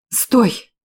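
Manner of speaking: sharp cry to stop him; sharp alarmed stop; exclaiming. Acted. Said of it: "воскликнула я".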